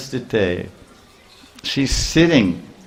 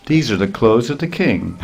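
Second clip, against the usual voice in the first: Krishna mimicking the washerman to Balaram, mocking; mocking echo. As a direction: toss his words back at him, amused.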